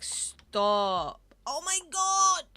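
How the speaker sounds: high, loud squeal of delight; Oh my god shrieked high and loud. Real, not acted. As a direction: shriek at the cute picture. Reacts to cute rabbit photo.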